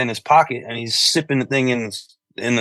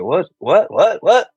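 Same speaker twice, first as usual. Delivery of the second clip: rising, disbelieving whats, climbing higher; each what more incredulous than the last; baffled what; 8 semitones higher, 3 dB louder, slower than usual. Retold or imitated. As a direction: artist baffled by music business demands. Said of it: "I was like".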